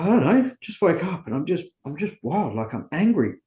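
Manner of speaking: high, loud agitated outburst fading down; retold anger. Telling his sponsor he woke up angry, agitated outburst. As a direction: blurt it out all worked up. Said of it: "I'm effing angry".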